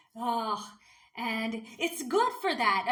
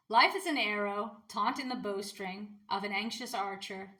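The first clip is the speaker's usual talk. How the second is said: measured, deliberate poetry recital; poem reading. Acted. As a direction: lean into each image of the poem. Reads her poem aloud.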